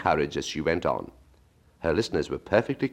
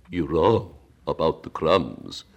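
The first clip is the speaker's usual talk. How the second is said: slow Mock Turtle voice; slower than usual.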